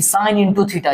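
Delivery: "sine into theta" slowly, with INTO for "of"; wrong pronunciation. Shown as a demonstration. Teacher quotes the misreading to students, slow "sine into theta". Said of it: "इस तरीके से नहीं".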